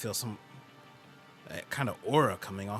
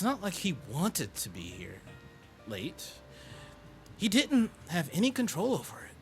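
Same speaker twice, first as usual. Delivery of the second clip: indignant high voice; 7 semitones higher than usual. Acted. Indignant defense.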